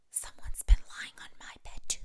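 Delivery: hushed whisper. A narrator's reading. Mama Bear whispers so as not to wake the sleeper. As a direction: breathe it, no voice at all. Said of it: "Mama Bear whispered".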